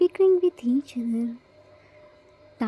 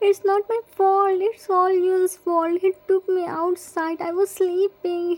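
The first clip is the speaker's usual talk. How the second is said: higher, whimpering plea; whiny crying plea; 3 semitones higher than usual. Acted. Jimin begging grandma to let go of his ear, whiny crying. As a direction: beg through tears to be let go. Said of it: "Jimin crying".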